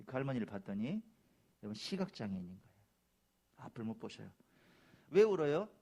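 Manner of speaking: normal talking voice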